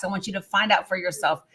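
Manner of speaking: ordinary talk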